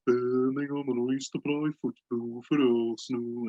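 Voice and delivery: a hint of a dull, droning pundit voice; lightly mock the boring commentator. Mocking the boring commentator Alan Smith, lightly dull. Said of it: "Very dull, boring".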